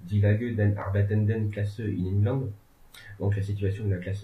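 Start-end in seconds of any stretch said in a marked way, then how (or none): 0.1-2.5 self-mocking clumsy German accent, slow; reading a German title in a poor German accent; bad German accent. Shown as a demonstration. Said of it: "excusez mon accent allemand déplorable".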